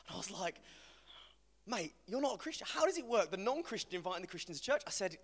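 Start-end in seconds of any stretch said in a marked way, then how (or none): 1.7-4.8 higher-pitched, puzzled protest; mock bafflement. Retelling his reaction to a friend's church invite, baffled. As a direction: question it in comic disbelief.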